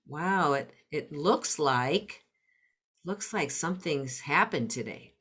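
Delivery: put-on a parent softly observing their upset child; gentle tentative statement. Shown as a demonstration. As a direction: ease in gently without asking a question. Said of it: "using tentative words".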